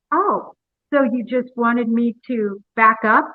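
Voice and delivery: slow, mildly sardonic retold question. Retelling a driver's retort to a police officer, mildly sardonic. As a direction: draw it out with a touch of mock realization. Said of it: "very sardonically".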